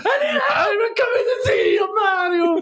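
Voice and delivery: shouting falsetto Italian plumber; cartoon plumber voice. Acting Luigi calling Mario.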